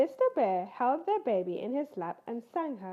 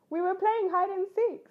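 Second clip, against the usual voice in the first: higher, louder excited little bear; higher, louder breathless cub; 8 semitones higher, 6 dB louder than usual. Acted. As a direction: tumble out the news like a cub. Cubs excitedly report.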